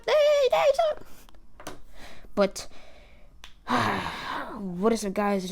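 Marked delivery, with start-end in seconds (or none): 0.1-1.8 yelling. Real, not acted. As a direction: call out sharply to stop someone. Yelling to quiet someone.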